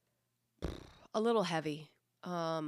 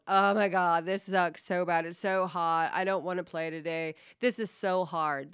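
louder mock complaint; whining; 6 dB louder than usual. Coach mimicking whiny players walking onto the field, whining. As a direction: imitate kids whining, pushed out loud. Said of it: "And then they're whining".

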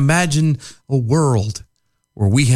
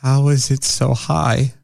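incredulous; slower than usual. Real, not acted. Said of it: "I need to know".

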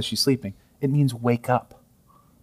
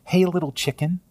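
gentle pet name. Retold or imitated. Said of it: "He calls her a pet name".

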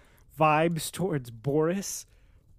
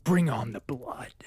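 whispered, hungry for battle; eager whisper; 4 semitones lower, slower than usual. Retold or imitated. Reader reacting to the war speech, eager whisper. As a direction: breathe it like a secret craving. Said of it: "And I was like".

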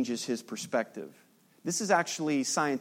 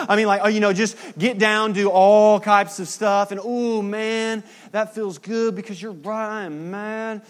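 put-on high, loud, egging-on girlfriend voice; gossiping friend; 6 semitones higher, 6 dB louder than usual. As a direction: hype her up like a best friend taking your side. Friend who commiserates in ditch.

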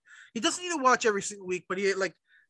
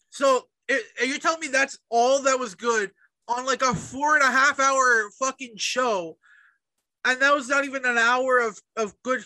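louder, higher, slowed rant; exasperated rant; 4 semitones higher, 5 dB louder than usual. Real, not acted. Complaining to a friend about the long show, louder exasperated rant. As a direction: vent the frustration, punching each word.

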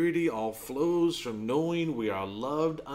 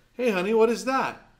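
put-on higher-pitched sing-out to a small child; doting father; 9 semitones higher, 4 dB louder than usual. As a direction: voice a dad coaxing his little girl. Father quizzing his small daughter.

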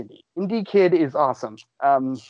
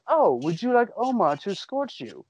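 higher, polite lady's offer; lightly voiced hostess; 6 semitones higher than usual. Podcaster retelling the woman's offer to Indy, lightly imitated hostess. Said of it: "the woman goes".

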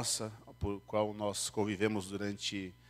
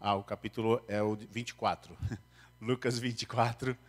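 muffled behind a face mask; through a face mask. Real, not acted. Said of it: "com máscara fica difícil ouvir". (falando abafado pela máscara)

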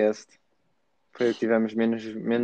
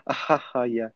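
fake laugh. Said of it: "Riso forçado bué falso".

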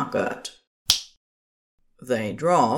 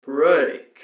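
car computer voice; 4 dB louder than usual. A narrator's reading. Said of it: "a Kent voice said".

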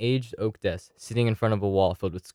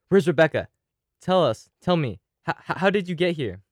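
flustered, higher, stammering; 7 semitones higher than usual. A narrator's reading. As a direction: stammer out the questions fast. Flustered demanding.

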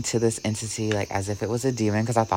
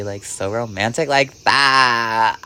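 laughing; slower than usual. Real, not acted. Laughing at her own story.

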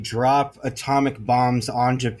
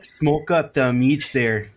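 put-on Midwestern accent; slower than usual. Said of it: "are you doing Canadian now?".

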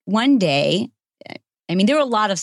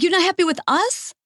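shocked question; 13 semitones higher than usual. Retold or imitated. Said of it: "I'm like".

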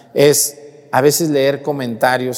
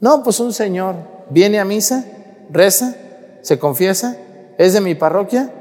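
higher, lively mock gossip; eager informant; 6 semitones higher than usual. A parishioner describes the gossiping man to the priest, higher. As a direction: rattle off the pious man's virtues, pitched up. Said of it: "yo siempre pregunto".

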